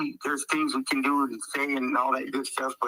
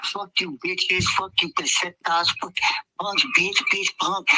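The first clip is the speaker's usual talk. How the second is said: lightly mocked drunk trash-talker, pitched up; mock drunken insults in a higher voice; imitating drunken tough talk; 4 semitones higher than usual. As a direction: do a mild impression of someone mouthing off drunk. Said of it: "he's talking like this".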